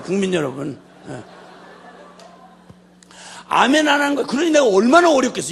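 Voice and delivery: loud, high preacher's complaint; thundering sermon; full-force preaching. Real, not acted. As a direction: rail at the congregation in mock grievance.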